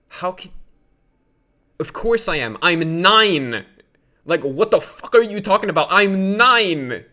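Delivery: loud incredulous yell, pitched high; retold outburst. Mother praises a nine-year-old child, who yells back incredulously. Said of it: "And I was like".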